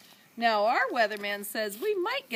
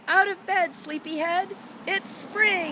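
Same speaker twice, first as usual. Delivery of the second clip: playful wake-up call; 10 semitones higher, 6 dB louder than usual. A narrator's reading. Rabbit wakes the bird.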